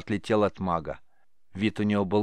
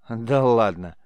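smirking; 6 dB louder, slower than usual. Acted. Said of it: "Сид усмехнулся".

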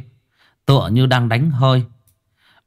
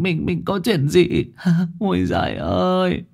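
much higher, stretched lament; wailing wife; 9 semitones higher than usual. Acted. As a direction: wail to the dead husband in despair. Wife wailing at husband's ghost.

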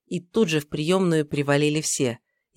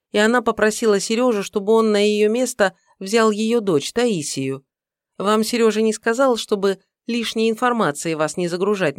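put-on high chattering young woman; 5 semitones higher than usual. Secretary chattering on.

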